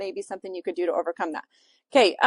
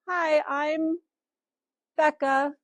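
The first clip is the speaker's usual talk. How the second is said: drawn-out, higher-pitched greeting with pauses; slightly raised, halting hello; mock video intro; 5 semitones higher, slower than usual. Shown as a demonstration. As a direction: imitate a stalling self-introduction on camera. Mock example of slow intro.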